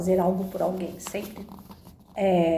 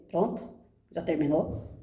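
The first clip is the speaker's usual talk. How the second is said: a lower, level, unbothered doctor asking if she's done; calm, dry doctor; 4 semitones lower, 4 dB quieter than usual. Retold or imitated. Doctor to sobbing patient, calm and dry. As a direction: flatly check whether the crying has stopped. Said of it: "Sério, mas sereno".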